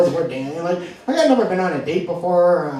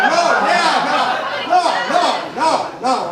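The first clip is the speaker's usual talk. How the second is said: higher, embarrassed string of no's; mortified protest; 5 semitones higher than usual. Retold or imitated. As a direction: shut Dad down, embarrassed. Mortified son protesting dad's remark.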